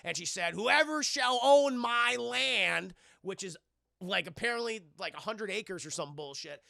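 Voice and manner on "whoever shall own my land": slow, high, looming curse voice; hammed-up slow witch curse; witch's curse. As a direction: intone it like a hanged witch cursing the land. Witch's curse in retold film.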